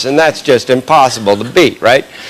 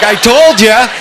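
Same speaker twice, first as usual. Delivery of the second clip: laughing I told ya; 8 semitones higher, slower than usual. Retold or imitated. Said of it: "I was like".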